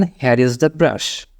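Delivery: very slow, each word clear; slow model sentence. Shown as a demonstration. Teacher showing learners what to say at the sink, very slow. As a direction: lay it out slowly to be repeated. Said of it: "ওরকম মুহূর্তে আপনি বলবেন".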